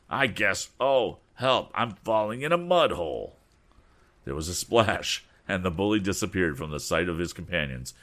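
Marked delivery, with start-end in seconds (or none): 0.1-3.4 higher, louder mock panic; alarmed cry for help. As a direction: yelp as you slip into mud. Andy falls in mud hole.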